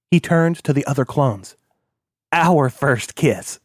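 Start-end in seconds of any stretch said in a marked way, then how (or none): 2.3-3.6 drawn out, very slow; slow savoring. Acted. Kilroy telling the other clones, slow and savoring. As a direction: stretch each word fondly.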